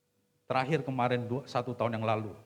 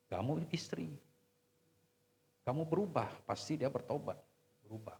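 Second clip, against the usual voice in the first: gentle counsel; 3 semitones higher than usual. Retold or imitated. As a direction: lay it down gently.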